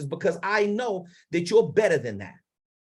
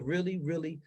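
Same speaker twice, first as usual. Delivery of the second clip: drops much softer on really, really soft-spoken; 2 semitones lower, 8 dB quieter than usual. Shown as a demonstration. Coach showing students the soft end of his range. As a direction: let the voice fall to a hush. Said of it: "soft-spoken with my tone of voice".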